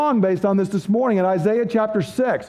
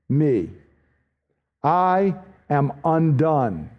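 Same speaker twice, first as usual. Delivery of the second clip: slow, lower, hushed cry of woe; despairing prophet; 4 semitones lower, much slower than usual. Acted. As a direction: speak as a man undone before God. Isaiah's terrified response to God.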